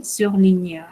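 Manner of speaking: "surligneur" with GN sounded as ñ. Shown as a demonstration. Teacher repeats GN example for learners, ñ sound. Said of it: "la pronunciamos como una ñ".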